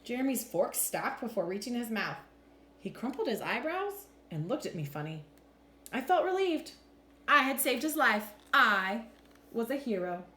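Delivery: animated picture-book narration with deliberate pauses; expressive, measured storytime voice; story read-aloud. A narrator's reading. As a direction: read to children, lifting and dropping the pitch for drama.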